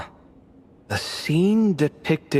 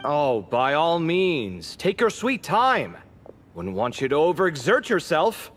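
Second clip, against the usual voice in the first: slow, higher, dripping with mock patience; sarcastic; 4 semitones higher than usual. Teasing the slow reader of the slab, sarcastic and drawn out. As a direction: needle them for being slow, sweetly.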